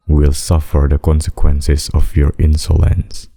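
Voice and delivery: measured, emphatic warning; stern threat. Acted. Demon threatening a ruler's people, stern threat. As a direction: pronounce doom on the whole court.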